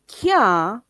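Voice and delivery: "can't" said as a long "kyah"; Patois pronunciation of can't. Shown as a demonstration. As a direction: stretch "can't" into "kyaa", no final t. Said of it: "meaning cannot".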